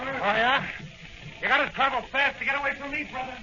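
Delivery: fast, high cocky boast mid-chase; excited boast while running. Acted. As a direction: rattle it off hot on his heels. Cop chasing, boasting.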